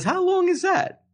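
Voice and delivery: very high, slow baffled question; mock astonishment. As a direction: imitate someone dumbfounded, pitch leaping up. Retelling man's stunned questioning.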